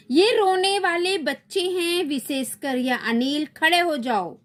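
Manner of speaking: high, lilting fairy voice reading her lines; sleep fairy voice. Acted. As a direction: play the sleep fairy scolding the crying kids. Teacher voices sleep fairy in play. (नींद परी की ऊँची आवाज़)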